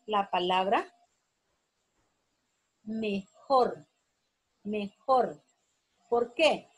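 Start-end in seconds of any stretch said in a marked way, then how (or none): 2.8-5.4 "mejor" said twice as me-JOR, with a pause between; slow teacher's demonstration of "mejor", stressed on JOR; stress on final syllable. Shown as a demonstration. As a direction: lean on the JOR of "mejor" each time. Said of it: "jor es la sílaba tónica".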